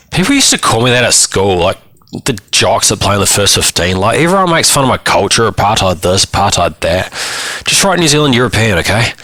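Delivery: lightly voiced boy, pitch jumping in protest; aggrieved teenage client. Boy complains about being mocked at school, aggrieved. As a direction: grumble about being picked on, lifting the pitch.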